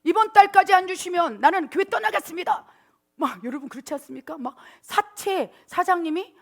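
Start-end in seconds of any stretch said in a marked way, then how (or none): 0.0-2.7 loud, high-pitched ultimatum; demanding loan shark. Acted. Believer dunning God like a loan shark, loud threatening demand. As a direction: demand payment like a debt collector, full volume. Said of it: "사채를 받으러 가는 사채 업주 같아".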